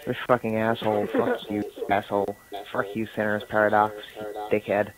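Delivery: imitated American swearing; mock American accent. British player insulting Centaur's Paradox, mock American accent. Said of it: "I can fucking get an American accent".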